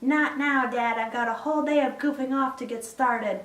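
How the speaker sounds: high, mocking take on a son; mocking impersonation. Son putting off Dad to goof off, mocking impersonation. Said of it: "that's a very flattering impersonation".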